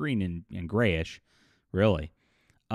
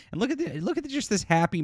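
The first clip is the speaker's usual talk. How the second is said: laughing; 12 semitones higher, faster than usual. Real, not acted. Laughing at the art.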